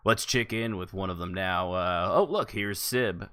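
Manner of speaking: upbeat salesy announcer read; infomercial announcer. Acted. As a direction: pitch it like a TV ad host. Hosts a mock infomercial.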